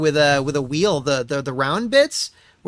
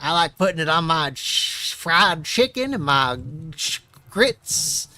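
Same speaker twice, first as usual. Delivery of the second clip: mock Clinton pandering. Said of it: "no one's buying this".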